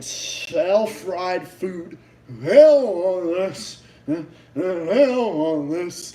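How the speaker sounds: slow, drawn-out mimicry of the clip; imitating mumbled speech. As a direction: drag out "Hell on this" slowly. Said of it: "it sounds like she was saying".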